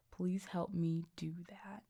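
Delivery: breathy whisper of a humble prayer; whispered plea. Retold or imitated. Reggie whispering a humble prayer to Jesus. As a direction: drop to a whisper for the ask.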